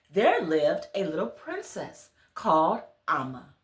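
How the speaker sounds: put-on gentle storybook reading to children; story narration. A narrator's reading. Reader telling children a bedtime story, gentle storybook narration. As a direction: read it like a bedtime tale to little listeners. Reads picture book aloud.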